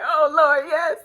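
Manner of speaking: high, loud church-style exclamation of praise; a hammed-up worshipper caught in the spirit; mock spirit-filled praise. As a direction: act like the prayer is moving you. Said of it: "people thought I was really feeling the prayer".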